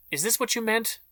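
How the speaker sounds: high, strained cry; cried out. A narrator's reading. James crying out from her hiding place, high panicked cry. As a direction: fling the question out in panic. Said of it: "James cried".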